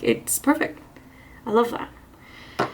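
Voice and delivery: breathless between words; a little winded, soft breathy delivery; out of breath. Real, not acted. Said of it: "I don't know why I'm so out of breath".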